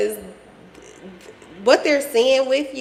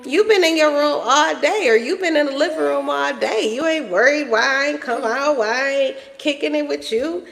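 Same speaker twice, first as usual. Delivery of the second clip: mock-indignant, higher-pitched challenge; cocky; 5 semitones higher than usual. Mother teasing her son for ignoring her, cocky. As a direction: playfully put out at being ignored. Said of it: "They carry this cocky energy".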